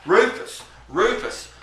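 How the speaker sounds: high-pitched mocking neighbor voice; Jarney. Neighbor calling Rufus repeatedly, high mock voice. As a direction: call the name high, then ease down. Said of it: "this is my impression of him".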